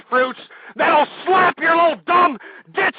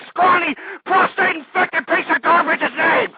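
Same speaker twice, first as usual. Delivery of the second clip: angry outburst. Real, not acted. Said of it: "I'm getting angry".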